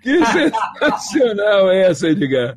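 after laughing hard. Real, not acted. Laughing after the funny story.

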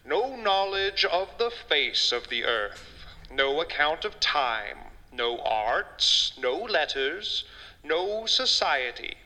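reading a passage with gravity; dramatic reading. Acted. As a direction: read it like a solemn old text. Reads Hobbes passage aloud.

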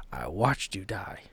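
slow, hushed whisper of grief; whispered confession, barely voiced; broken whisper. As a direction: let it fall to a breathless whisper. Bernard confronts his dead wife.

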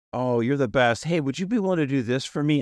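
lightly acted sweet request; asking nicely. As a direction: ask nicely, like a wife coaxing her husband. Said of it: "and ask so nicely".

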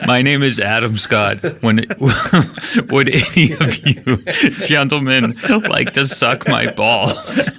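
French accent breaking into laughter; half-hearted French accent, cracking up. Shown as a demonstration. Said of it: "give me English words, but the accent".

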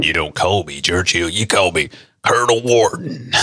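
lightly put-on statesman, little English accent; Churchill. Statesman insists on his code name, lightly acted correction. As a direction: play at correcting someone on a nickname. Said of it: "I don't think he would have said it like that".

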